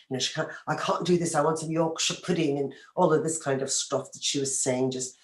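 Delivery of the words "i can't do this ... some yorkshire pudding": put-on English accent; very British. Imitating friend back from England, mock British accent. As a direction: mimic an affected British accent lightly. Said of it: "she's speaking very British".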